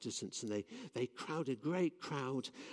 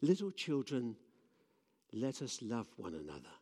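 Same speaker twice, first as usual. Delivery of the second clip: put-on quavery old man. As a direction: let the words tremble a little. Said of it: "in a very quavery voice".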